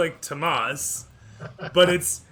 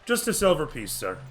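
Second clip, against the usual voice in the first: put-on serving boy. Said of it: "the bartender".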